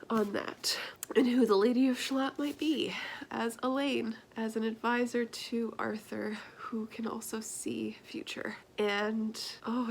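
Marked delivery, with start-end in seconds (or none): 4.4-8.5 whispering. Real, not acted. Hushed description.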